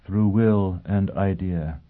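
slow, level droning; slow trance-like drone; droned. Acted. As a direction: drag the words out in a trance. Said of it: "Pristine droned".

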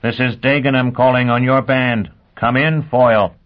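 crackling radio transmission; fuzzy radio voice. Acted. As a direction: voice over a bad radio link. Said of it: "voice came in fuzzily".

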